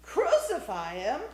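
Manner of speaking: loud call lifting at the end; loud chorus shout; crowd's cry. A narrator's reading. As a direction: cry it out as one of the mob. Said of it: "came the thick-throated chorus".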